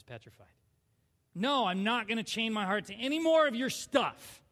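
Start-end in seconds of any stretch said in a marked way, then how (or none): 1.3-4.4 re-enacted angry refusal; mad. Refusing the Lord after heartbreak, mad. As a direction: dig in and refuse with a touch of anger. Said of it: "I was mad".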